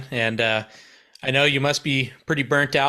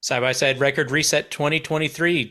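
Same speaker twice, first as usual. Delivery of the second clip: big event announcer read; 2 semitones higher than usual. Acted. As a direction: hype it like a show announcer. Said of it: "do it in your announcer voice".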